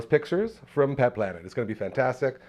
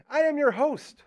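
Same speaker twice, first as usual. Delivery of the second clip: ordinary talk, nothing marked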